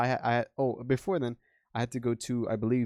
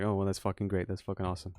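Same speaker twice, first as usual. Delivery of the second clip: flat, dry sarcasm; sarcastic; 3 semitones lower, 3 dB quieter, faster than usual. Retold or imitated. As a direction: fake cheer, dead inside. Sarcastic about lower pay.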